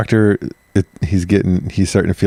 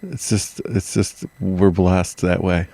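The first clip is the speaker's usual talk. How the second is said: hushed reverent; 6 dB quieter, much slower than usual. Pretend.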